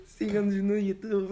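loud, slow mock announcer; hammed-up promo voice. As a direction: plead like a cheesy YouTuber. Mock promo plea, laughing.

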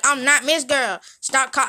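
retold indignant retort; indignant objection. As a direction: push back hard on the nickname.

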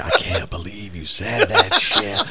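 slow words through a retold laugh; a rock singer laughing. The singer to the comic after his crowd put-down, laughing. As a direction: say it slowly, laughing in disbelief. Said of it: "the singer's laughing at him".

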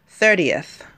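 "thirtieth" said a bit slowly, with a light American twang; a little American twang. Shown as a demonstration. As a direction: let "thirtieth" slip out with a slight American twang. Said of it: "you can hear that little American twang".

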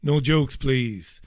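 ordinary talk

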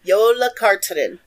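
"Yola Carterin" said firmly and carefully; careful pronunciation. Shown as a demonstration. Host corrects co-host's YOLO with "Yola Carterin", careful and firm. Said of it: "say it slowly because I did learn how to pronounce".

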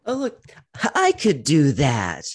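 high, put-on excited voice; squeaky mock viewer voice. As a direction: squeal it like a thrilled kid.

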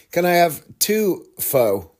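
slow order with "pho" as "foh"; "pho" with a mistaken long O; mispronounced order. Acted. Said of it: "pronouncing it wrong".

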